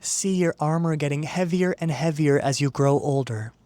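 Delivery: calm, measured meditation guide; guided meditation. Acted. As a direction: ease the listener into stillness, unhurried, with long pauses. Leads a guided visualization.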